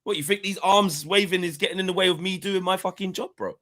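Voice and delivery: swaggering imitation, pitched well up; imagined Henry defending Bruno, high cocky mock voice. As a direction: brag like a star who knows he's the best. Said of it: "Henry saying".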